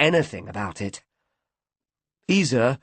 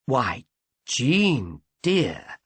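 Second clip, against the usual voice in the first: smooth; much slower than usual. A narrator's reading. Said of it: "said Isa smoothly".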